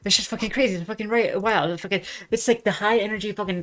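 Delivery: excited, high, loud, tumbling repeats; losing their mind. Real, not acted. Streamer raving about a favourite clip, losing their mind. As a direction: gush loudly, tripping over the words. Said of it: "I just lose my mind".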